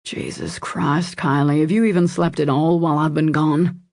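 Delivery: worried, exasperated man's voice, lightly acted; hoarse with concern. A narrator's reading. Man scolding her for not sleeping, lightly hoarse with concern. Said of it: "his voice hoarse with concern".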